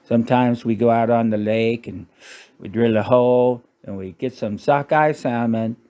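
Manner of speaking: lightly put-on Canadian accent; folksy imitation of a Canadian accent; mock Canadian accent. Canadian telling of ice fishing on the lake, mock Canadian accent. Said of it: "Sorry about that accent".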